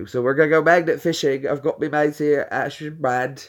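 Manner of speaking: lightly put-on British vlogger voice; mock British accent, video-intro patter; Brad. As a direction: imitate a British pal introducing his video. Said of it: "I was doing Brad's voice".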